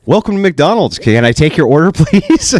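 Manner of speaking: high, bright drive-through greeting; chirpy fast food cashier voice; sing-song customer service voice. Retold or imitated. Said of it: "You know that sing-song voice".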